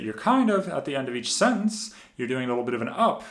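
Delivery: rising endings on "each sentence" and "an up"; upward inflection. Shown as a demonstration. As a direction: lift the pitch at the ends, on "sentence" and "up". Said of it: "What I mean by upward voice inflection".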